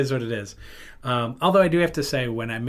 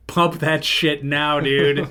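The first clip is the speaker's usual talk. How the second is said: urgent order; 3 semitones higher, 5 dB louder, much slower than usual. Retold or imitated. Urges friend to hurry, retold.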